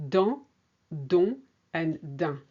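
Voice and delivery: Dans, don, din each with a distinct nasal vowel; French nasals. Shown as a demonstration. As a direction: model the three nasal vowels slowly. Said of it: "the nasals".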